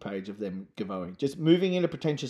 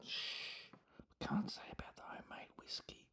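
hushed mock-conspiratorial whisper; very soft whisper; secretive whisper; 21 dB quieter than usual. Mock secret about homemade whiskey.

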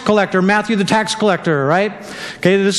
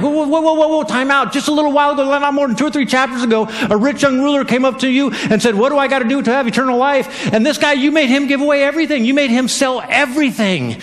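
higher, excited objection; mock protest; 5 semitones higher than usual. Listener objecting to Jesus in higher excited disbelief. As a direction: throw up your hands in protest. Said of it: "you gotta be like".

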